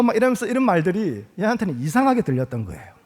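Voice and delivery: usual speaking voice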